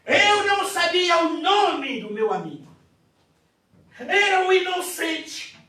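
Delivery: loud, high preaching cry; fervent preacher's shout. Acted. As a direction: proclaim it at full force. Preaching climax.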